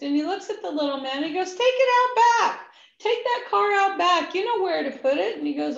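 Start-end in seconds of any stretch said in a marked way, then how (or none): 1.5-5.4 loud, high order across the shop; bossy shout. Retold or imitated. Counter man ordering the mechanic, loud bossy call.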